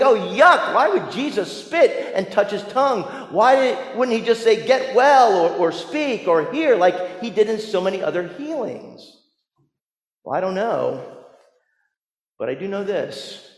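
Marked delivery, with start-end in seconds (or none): 0.0-9.1 higher, lightly acted puzzled protest; mock disgusted disbelief. Preacher voices the congregation's reaction to the spit, mock bewildered disgust. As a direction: play a baffled listener's objection.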